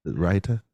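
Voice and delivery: "Raita" as two syllables, RYE-tuh, rising; questioning pronunciation. Shown as a demonstration. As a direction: settle on "Raita" as RYE-tuh, still asking. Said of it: "Is that how you say it".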